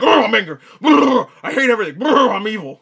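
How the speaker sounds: high, giggling cartoon-villain parody; mock a one-note bad guy while laughing; hammed-up evil through laughter. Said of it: "Black Manta's just like".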